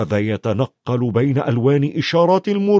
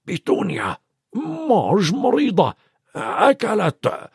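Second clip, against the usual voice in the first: lightly voiced uncle, rising high and slowing; uncle reading a card; 7 semitones higher than usual. A narrator's reading. Uncle reads his sister's card to his wife, lightly voiced. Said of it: "وقال".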